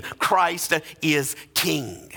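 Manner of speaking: rising, rhythmic sermon delivery; preaching. Acted. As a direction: preach it with building conviction, line after line. Preacher at full force.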